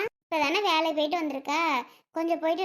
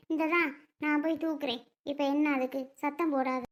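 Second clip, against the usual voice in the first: softer, lowered volume; hushed placating; 6 dB quieter than usual. Acted. Offering to lift the baby, asking for no shouting, hushed. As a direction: quietly try to defuse the quarrel. Hushing an angry relative.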